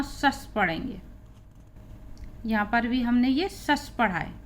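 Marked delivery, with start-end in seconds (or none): 0.0-0.5 "सस" as one hushed syllable, shus; pronunciation demo. Shown as a demonstration. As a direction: say "सस" as a single short shus. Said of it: "हम हमेशा सस पढ़ेंगे".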